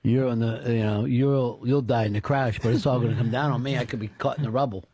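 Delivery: lightly voiced coworker, low pitch; low retold coworker voice; imitating a coworker. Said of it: "And he goes".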